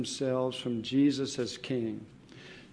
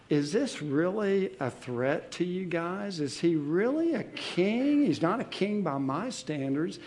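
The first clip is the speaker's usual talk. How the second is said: higher, scornful mock questions to the crowd; mocking Pilate; 5 semitones higher than usual. Pilate mocking the crowd, scornful and higher. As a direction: sneer at how absurd the charge is. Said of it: "Pilate's speaking somewhat in a mocking way".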